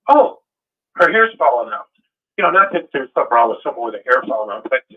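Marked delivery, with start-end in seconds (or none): 0.1-1.9 shocked gasp. Retold or imitated. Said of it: "I'd say".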